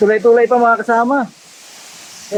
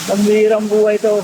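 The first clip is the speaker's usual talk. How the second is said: trembling. Real, not acted. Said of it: "nanginginig ako".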